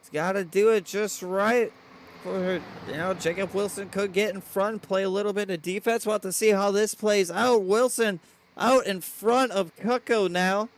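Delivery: energetic race commentary; live play-by-play. Real, not acted. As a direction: call the race live, building toward the turn.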